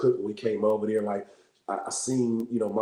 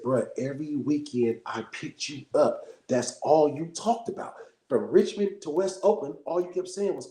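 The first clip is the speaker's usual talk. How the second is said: emphatic reminder; 3 semitones higher, 3 dB louder, slower than usual. Retold or imitated. Uncle recalling nephew's childhood talk.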